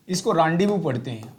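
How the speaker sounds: rendezvous said as "raandevoo", z and s silent; rendezvous spoken the French way, stressed and clear; French pronunciation. Shown as a demonstration. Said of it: "Hindi में थोड़ी सी". (rendezvous को "रांदेवू" बोलिए, French अंदाज़ में)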